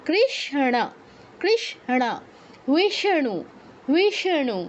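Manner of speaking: কৃষ্ণ and বিষ্ণু with a curled-back ষ্ণ; retroflex ষ্ণ. Shown as a demonstration. Teacher modelling the correct sound for the class. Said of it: "এরকম".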